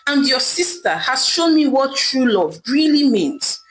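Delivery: a hint of wounded anger; angry. Husband ending the marriage, mildly angry. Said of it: "Ame said to his wife angrily".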